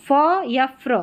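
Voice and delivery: फ as plain f, फ्र with an r after it; PH and PHR sounds. Shown as a demonstration. Teacher contrasting फ and फ्र for learners, demonstrated sounds. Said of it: "पीएचआर है तो फ्र".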